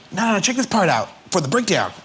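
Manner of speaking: A singer. Retold or imitated. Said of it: "He's like".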